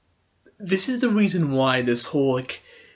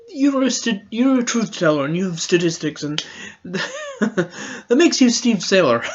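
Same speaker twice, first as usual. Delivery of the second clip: laughing through words; 3 semitones higher than usual. Real, not acted. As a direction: laugh breaking into "truth teller". Mocking double standards, laughing.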